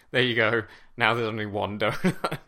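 loud, exasperated snap as he crushes the box; furious outburst. Retold or imitated. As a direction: bark it out, fed up with the bickering. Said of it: "the captain just loses his shit".

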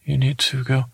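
flat, even monotone delivery. Retold or imitated. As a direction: say it all on one note. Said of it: "He would talk like that. He talked very monotone".

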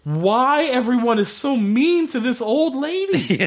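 high, giggling through the words; laughing disbelief. Real, not acted. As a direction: laugh while asking why everyone is mean. Laughing in disbelief at X-Pac scene.

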